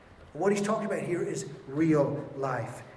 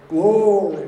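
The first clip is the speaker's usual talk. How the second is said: mock revival preacher, much louder and higher; Billy Graham voice; 4 semitones higher, 12 dB louder than usual. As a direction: belt it out like an old-time evangelist. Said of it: "the way he speaks".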